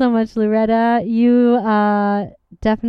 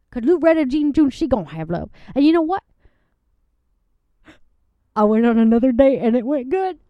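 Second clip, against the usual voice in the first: a sweet country woman gushing about her date; a lovelorn Southern guest giggling through her story; Southern lady Loretta; 3 semitones higher, 3 dB louder, faster than usual. Acted.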